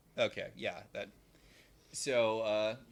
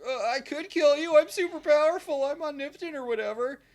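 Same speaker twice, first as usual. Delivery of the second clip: mocking evil son; 10 dB louder than usual. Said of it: "And Evil Wyatt's like".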